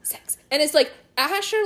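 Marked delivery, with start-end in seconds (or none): 0.0-0.4 forceful whispered counting, spaced out; imitated kid's intense whisper; aggressive whisper. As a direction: whisper each number sharply on its own. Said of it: "aggressively whispering, counting".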